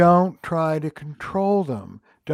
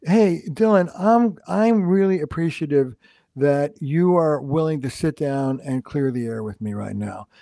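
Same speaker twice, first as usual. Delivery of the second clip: appreciative quote. Shown as a demonstration.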